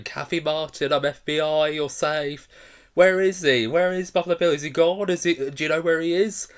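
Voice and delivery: mock FBI agent shouting into the cellar; urgent shouting call. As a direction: call out to a trapped girl, demanding answers. Clarice calling out in cellar.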